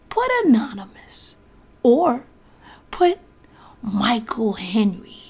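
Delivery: conspiratorial whisper. Real, not acted. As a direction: whisper the trick. Whispered tip about author name.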